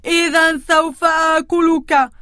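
threatening troll voice. Acted. Troll threatening the billy goat, mildly menacing. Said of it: "مهددا بصوته المرعب".

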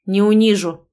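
curt irritated reply. Acted. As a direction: toss it off in annoyance. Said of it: "бросает Ходборг раздражённо". (раздражённо)

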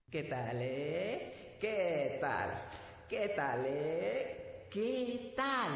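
slow sing-song boasting; showing off. Acted. Tiny charro in the bottle showing off to the girl, sing-song boast. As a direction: strut and preen in a tiny voice. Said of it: "muy presumido".

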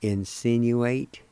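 insinuate said slowly; careful slow "insinuate"; spelled-out word. Shown as a demonstration. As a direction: sound out "insinuate" syllable by syllable. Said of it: "Again, one of four is the word".

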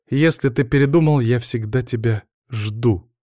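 a burst of despair that slows at the end; wife pleading with husband in despair; sudden despair. Acted. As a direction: blurt it out desperately, then linger on the promise. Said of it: "с отчаянием сказала вдруг Даша".

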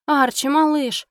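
slow, high worried cry; alarmed call. Acted. Wife calling her stunned squirrel, slow high alarmed cry. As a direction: call out to the limp little pet.

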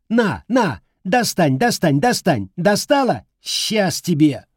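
put-on taunting boy. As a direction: tease her mercilessly.

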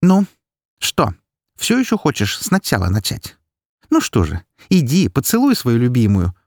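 lightly mocking invitation; smirking mockery. A narrator's reading. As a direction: taunt him with a smirk. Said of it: "усмехнулась я".

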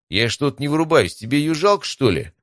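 high-pitched, puzzled indignation; indignant. A narrator's reading. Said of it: "возмутился Стас".

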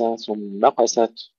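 ثم قست blended as if one word; the mistake: ثم glued onto قست; words run together. Shown as a demonstration. Teacher showing what not to say, ثم قست run together. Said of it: "يجب أن نفصل الكلمتين".

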